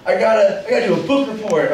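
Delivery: mock child's hurried little request; pleading kid. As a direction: ask Daddy for help in a mild kid voice. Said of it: "when my kid asks me".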